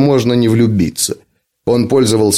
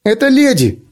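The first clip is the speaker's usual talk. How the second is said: put-on squeaky little girl voice; 11 semitones higher than usual. A narrator's reading. Ant keeps the little girl voice.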